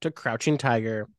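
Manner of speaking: hammed-up ringmaster announcement; grand entrance announcement. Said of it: "give us the plot".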